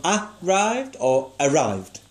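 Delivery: arrived, stress on first syllable, then arrived, stress on second; slow, contrasting stress on each arrived. Shown as a demonstration. Teacher asks pupil where the stress falls. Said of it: "think where the emphasis is".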